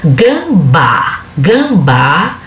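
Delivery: "Gambá" sounded out, weight on the final "bá"; teacher's demonstration of "Gambá" with a strong last syllable; stress on final syllable. Shown as a demonstration. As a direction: say "Gambá" in two beats, landing on "bá". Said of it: "a primeira sílaba de trás pra frente vai ser a mais forte".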